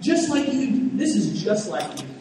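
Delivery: mock-whine it like a spoiled kid denied a toy; Jonah's bitter complaint. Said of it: "Jonah's almost saying".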